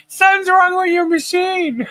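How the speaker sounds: high, laughing protest; loopy giggling. Retold or imitated. To the nurse about the monitor, high giggling protest. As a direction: giggle through it, drugged. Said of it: "I was so loopy off this freaking Benadryl".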